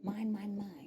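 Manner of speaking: acted irritated command; mock parental scolding. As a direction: imitate a parent shooing kids away. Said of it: "I'm not telling them".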